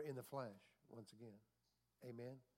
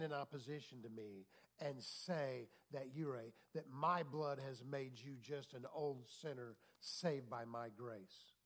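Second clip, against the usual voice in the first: God speaking, solemn; 2 semitones lower, slower than usual. Retold or imitated. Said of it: "He said".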